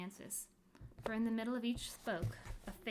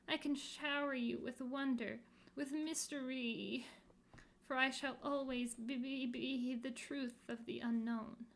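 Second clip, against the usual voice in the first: mysterious plea; 4 semitones higher than usual. Acted. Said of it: "begged the next voice".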